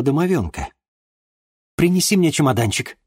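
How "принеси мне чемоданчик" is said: ordering. A narrator's reading. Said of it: "приказала она".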